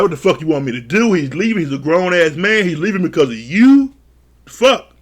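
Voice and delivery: angry yell. Retold or imitated. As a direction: fire it back. Ryan yelling back, retold.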